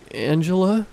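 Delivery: scream. Acted. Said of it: "I screamed".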